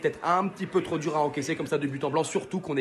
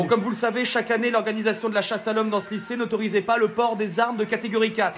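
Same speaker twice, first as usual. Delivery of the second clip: raised-pitch, relishing school announcement; gleeful headmaster speech; 5 semitones higher than usual. Acted. Headmaster announcing the yearly school manhunt, gleeful. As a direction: announce the manhunt like good news.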